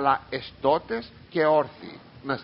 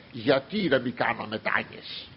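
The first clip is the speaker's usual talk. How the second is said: imitating a self-important objector, pitched lower; mock the pious know-it-all, in a lowered voice; egotist's put-on air; 5 semitones lower, 4 dB quieter than usual. Preacher mimics a churchgoer questioning prostrations, egotist's airs. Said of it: "έτσι παίρνουν ένα τέτοιο ύφος".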